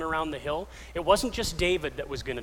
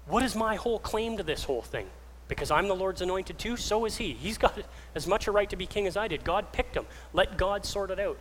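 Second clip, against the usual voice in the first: higher-pitched, insistent reasoning; earnest arguing; 5 semitones higher than usual. Acted. David talking his men out of killing Saul, insistent. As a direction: argue your men down, voice raised in pitch.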